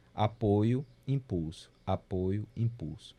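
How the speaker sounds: even pairs easing downward, no punched beat; natural beat flow. Shown as a demonstration. Music teacher showing time's natural movement, unaccented support and impulse. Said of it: "o movimento natural do tempo".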